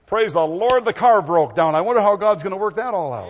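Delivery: loud, high, joyful praise for bad news; a hammed-up happy believer; cheerful praise. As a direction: rejoice loudly that the car broke down. Believer praising through trouble.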